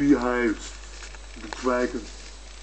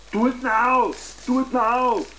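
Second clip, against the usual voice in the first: shouted order; 11 semitones higher than usual. Acted. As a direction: bark the command at full pitch. Bossy command shouted twice.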